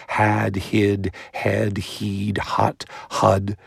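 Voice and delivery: had, hid, head, heed, hut, hud with each vowel clearly shaped; vowel series between H and D; contrasting vowels. Shown as a demonstration. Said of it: "put an A in between".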